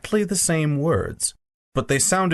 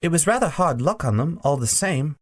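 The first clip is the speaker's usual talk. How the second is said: put-on higher, faster young boy; a small boy's polite objection; 5 semitones higher than usual. Diggory objecting to the Queen, lightly voiced boy.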